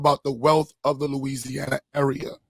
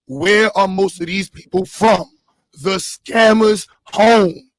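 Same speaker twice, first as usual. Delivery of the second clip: louder, punchy declaiming with drawn-out key words; emphatic orator; 4 semitones higher, 7 dB louder, slower than usual. Real, not acted. Host exposing scammers to the audience, emphatic. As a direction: hit the key nouns hard, slowly.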